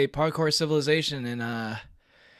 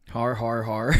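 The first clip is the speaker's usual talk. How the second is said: anime hero; 4 dB louder, slower than usual. Pretend. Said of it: "My friends despise my anime, anime protagonist voice".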